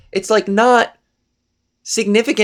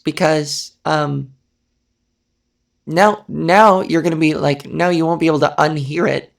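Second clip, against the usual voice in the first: lower-pitched breathy voice; 5 semitones lower than usual. Real, not acted. Speaker hoping they didn't ruin YouTube for listeners, breathy. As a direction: settle down low and let the breath through. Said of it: "I forgot to be breathy".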